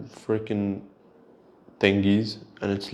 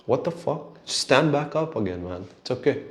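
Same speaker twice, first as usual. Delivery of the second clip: higher-pitched, incredulous urging; acted exasperation; 4 semitones higher than usual. Vlogger imagining telling the fallen performer to stand up, exasperated. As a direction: nag him to get over it. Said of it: "I'm like".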